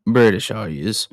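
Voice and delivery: lightly put-on Australian accent; attempted Australian accent. Mick asks if the ladies are British, light Australian accent. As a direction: have a modest go at Australian. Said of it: "I wish I could do his accent".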